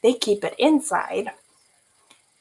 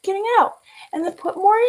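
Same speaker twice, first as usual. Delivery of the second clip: much higher, louder giggly telling; laughing retelling; 14 semitones higher, 6 dB louder than usual. Real, not acted. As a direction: tell it while cracking up. Laughing retelling trash antics.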